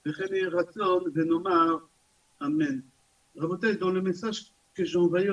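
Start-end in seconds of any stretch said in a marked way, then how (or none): 0.1-2.8 brisk, evenly recited blessing; prayer for healing. Real, not acted. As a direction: rattle off the blessing, drawing out the final words. Recites closing blessing for the sick. (prière de guérison récitée rapidement)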